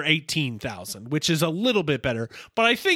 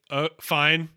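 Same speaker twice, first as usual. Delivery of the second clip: disaffected; 2 semitones lower, slower than usual. Retold or imitated. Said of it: "very, like, disaffected by the whole thing".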